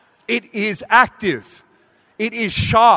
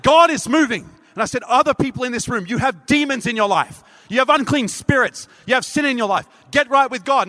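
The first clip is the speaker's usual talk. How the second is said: excited preaching shout; 5 semitones higher than usual. Retold or imitated. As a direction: proclaim it boldly to the whole room. Preacher rebuking demons in church.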